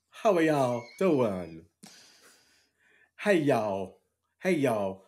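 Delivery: steadier try at Japanese Southern; Japanese Southern accent. Retold or imitated. Host retries the Japanese Southern accent. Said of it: "Japanese Southern accent".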